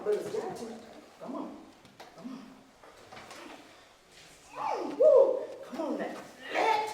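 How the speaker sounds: a hint of a mother calling her child; loving mother calling. Mother calling her daughter away from the spring, fondly. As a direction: call the little girl back, fond and firm.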